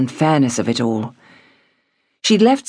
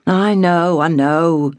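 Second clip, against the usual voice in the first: distracted father; slower than usual. A narrator's reading. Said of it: "said distractedly".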